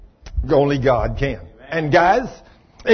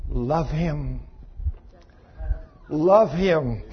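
gentle command; 5 dB quieter, much slower than usual. Retold or imitated. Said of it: "He told her, he said".

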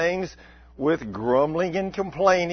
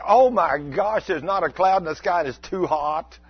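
grumbling and complaining. Acted. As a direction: play a grumbler who is never satisfied. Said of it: "So you're grumbling and complaining".

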